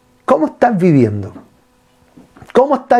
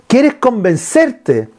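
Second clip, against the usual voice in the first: slow scolding rebuke; 4 semitones higher, much slower than usual. Retold or imitated. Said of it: "Le dice".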